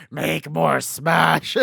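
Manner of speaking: slow drawn-out spooky command; slow eerie command. Retold or imitated. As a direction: say it like a haunting mask. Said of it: "Smash is just there".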